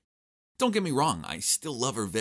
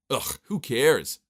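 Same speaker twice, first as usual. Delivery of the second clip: exasperated; 4 semitones higher, 5 dB louder, much slower than usual. Acted. Bored by wife's neighbor gossip.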